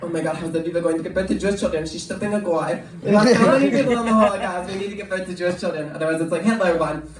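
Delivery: fast, mock-distraught aunt; retold family outrage, quick and insistent; upset aunt. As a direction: rattle off an imitation of a scandalised aunt. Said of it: "she got really upset".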